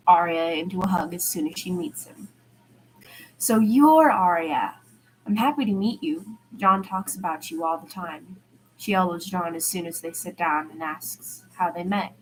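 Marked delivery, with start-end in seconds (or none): 3.4-8.4 soft-spoken friendly man. Acted. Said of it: "He's soft-spoken".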